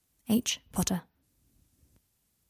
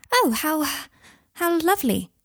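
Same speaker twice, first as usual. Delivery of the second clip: high-pitched, halting witch; 9 semitones higher, 3 dB louder than usual. A narrator's reading. A witch answering Harry about the boy, high and halting. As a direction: falter on it in a raised witch's voice. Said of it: "said the witch".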